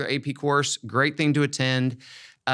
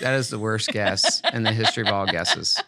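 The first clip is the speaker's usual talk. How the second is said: laughing through the words; 4 semitones lower than usual. Real, not acted. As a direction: chuckle while mocking the guess. Reacting to silly guess.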